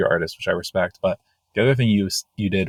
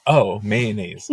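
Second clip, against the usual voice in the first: drawn-out oh, mayonnaise, slowed right down; mock dawning realization; slow surprised realization; much slower than usual. Friend hearing the artist's word, slow mock realization. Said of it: "you were like".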